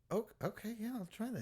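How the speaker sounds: high-pitched retold eager agreement; high, gullible little voice; naively agreeable. Retold naive agreement to friend's advice.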